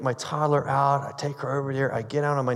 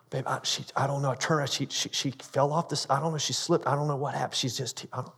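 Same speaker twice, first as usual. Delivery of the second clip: shaken, hushed panic; 2 semitones lower, 6 dB quieter than usual. Retold or imitated. Wife panicking after the fall.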